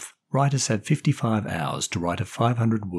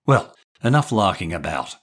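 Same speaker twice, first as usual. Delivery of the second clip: stern; 3 dB louder than usual. Acted. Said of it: "said Julian sternly".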